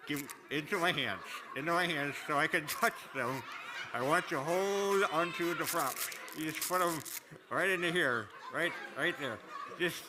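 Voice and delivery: talking around a party horn; words muffled by a blower; party blower in mouth. Real, not acted. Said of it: "the Little Mermaid party horn in my mouth".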